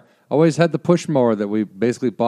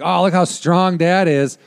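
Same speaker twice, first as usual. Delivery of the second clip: put-on admiring kid; 5 semitones higher, 3 dB louder, slower than usual. Imagining kids admiring their dad.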